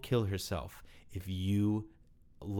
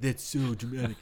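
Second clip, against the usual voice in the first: mock impressed; 4 semitones higher, 3 dB louder than usual. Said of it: "I wanna be dramatic".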